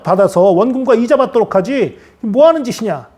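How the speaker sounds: indignant rebuke, pushing the pitch up; angry master. Acted. Master scolding the servant who buried the money, angry. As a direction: demand answers like an angered master. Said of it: "주인이 화가 났어요".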